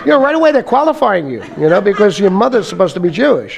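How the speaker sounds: words spill out through real laughter; laughing while talking. Real, not acted. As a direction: laugh through the explanation, pitch riding high. Laughing while telling the story.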